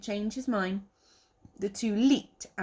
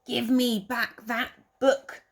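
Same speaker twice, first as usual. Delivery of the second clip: slightly louder slow angry owl demand; a touch of a furious owl; 4 semitones higher, 4 dB louder than usual. Acted. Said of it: "screeched the furious owl".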